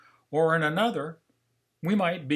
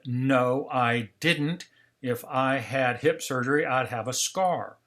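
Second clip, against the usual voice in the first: mildly acted frustrated denial; slower than usual. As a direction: argue back, a touch exasperated. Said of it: "I was very frustrated now".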